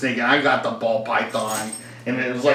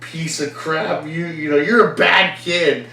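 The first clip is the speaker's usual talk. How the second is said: imitating adult scolding; 3 semitones higher than usual. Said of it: "got in my face ... and was like".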